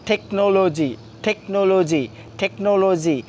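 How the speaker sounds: "টেকনোলজি" with T puffed as ঠ; aspirated T. Shown as a demonstration. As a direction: drill "টেকনোলজি", each take opening on aspirated ঠ. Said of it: "ঠিক তেমনটাই হবে".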